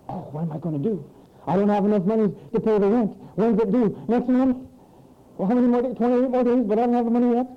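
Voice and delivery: mock frantic worrier; lightly hammed-up panic over rent; frantic tenant. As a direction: play a fretting tenant counting days.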